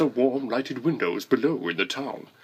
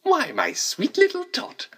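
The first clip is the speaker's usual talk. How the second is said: a much higher, syrupy false-kind Santa voice; fake sweet Santa; 14 semitones higher than usual. A narrator's reading. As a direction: coo the lie sweetly to the child. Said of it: "the fake Santa Claus lied".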